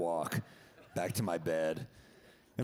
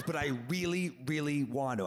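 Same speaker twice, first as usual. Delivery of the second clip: higher imitated plea; pleading; 4 semitones higher than usual. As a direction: plead like someone upset, played for laughs. Retold crying woman pleads with him.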